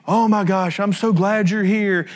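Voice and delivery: hammed-up joyful welcome; excited gushing greeting. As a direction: gush like a grateful host. Naaman's imagined greeting.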